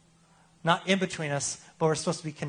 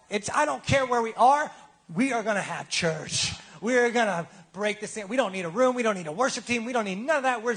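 preaching build; 4 semitones higher than usual. Real, not acted. Preaching build about having church.

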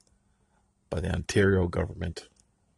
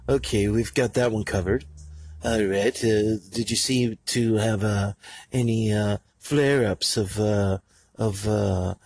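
snobby clerk parody. Pretend. Mocking snobby insurance clerk.

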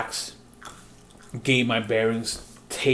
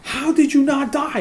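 very high, louder mock amazement; incredulous; 14 semitones higher, 5 dB louder than usual. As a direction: repeat it like they can't get over it. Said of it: "they just kept saying that".

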